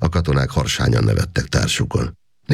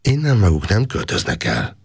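firm; 7 semitones higher than usual. A narrator's reading. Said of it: "mondta határozottan".

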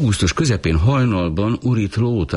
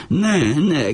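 much higher panicked shout; 11 semitones higher than usual. A narrator's reading. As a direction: cry out to stop them. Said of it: "kiáltotta".

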